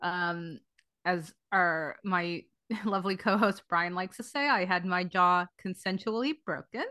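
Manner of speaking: stiff, numb jaw after surgery; talking through a numb, swollen jaw. Real, not acted. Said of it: "if I sound a little strange".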